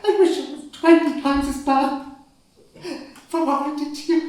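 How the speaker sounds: dying father laughing bitterly at his suffering. Acted. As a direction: laugh at your own pain. Dying father's bitter self-reproach.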